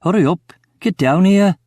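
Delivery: high, urgent call up the stairs; urgent yell upstairs. A narrator's reading. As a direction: yell for him to hurry. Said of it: "I yell up the stairs urgently".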